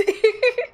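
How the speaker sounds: high laugh; high burst of laughter. Real, not acted. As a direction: laughs brightly. Laughing at own answer.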